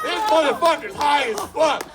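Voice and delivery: loud, high burst of disbelief; excited shout. Real, not acted. Telling the crowd about the passenger, loud and high. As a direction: shout it out, amazed.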